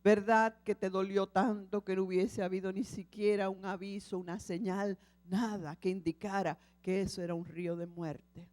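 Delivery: lightly voiced Lord speaking tenderly. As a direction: speak as a patient, loving God. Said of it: "la voz del Señor".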